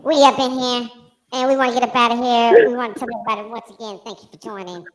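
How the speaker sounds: cocky hype-man persona, playful swagger; strutting show-host alter ego, easing toward normal; Baby Fro character. Pretend. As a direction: play a sassy wig character, starting high and loud.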